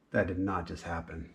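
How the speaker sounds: laughing in disbelief; stunned half-laugh; shocked laughter. Real, not acted. Shock at damaged cord.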